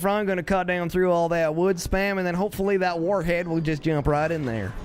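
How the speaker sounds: playful Southern US twang; folksy Southern play-by-play; mock Southern. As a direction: commentate with a put-on Southern accent. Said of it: "I don't know why I'm going southern".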